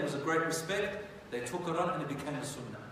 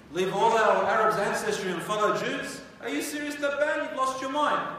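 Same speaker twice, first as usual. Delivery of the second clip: high, loud, disbelieving protest; indignant outrage; 6 semitones higher, 6 dB louder than usual. Acted. Yemeni people refuse Tabban's order to convert, outraged. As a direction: scold the king as if he's mad.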